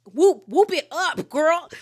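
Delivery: loud, high, drawn-out whooping; party hype. Retold or imitated. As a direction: imitate a friend hyping up the birthday girl. Heather hypes up the birthday girl.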